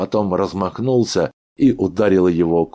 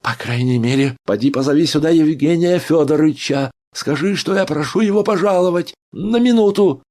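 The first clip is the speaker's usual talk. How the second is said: high, loud insistence; loud desperate demand; 11 semitones higher, 7 dB louder than usual. A narrator's reading. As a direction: yell a plea through the door. Doctor begs for the doctor.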